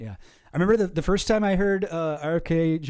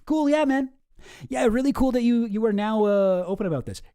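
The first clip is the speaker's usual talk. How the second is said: sarcastic; 3 semitones higher, 3 dB louder than usual. Real, not acted. Mocking a late confession.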